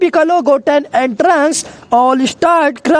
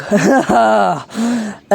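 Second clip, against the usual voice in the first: low laugh; 5 semitones lower, 3 dB quieter than usual. A narrator's reading. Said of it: "And now Beerus lug".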